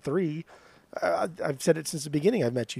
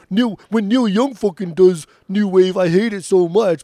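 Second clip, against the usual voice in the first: heated rant; 9 dB louder than usual. Real, not acted.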